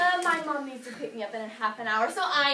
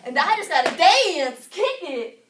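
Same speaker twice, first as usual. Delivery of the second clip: repeated entrance cue; 3 semitones higher, 5 dB louder, slower than usual. Acted. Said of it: "did you not understand me".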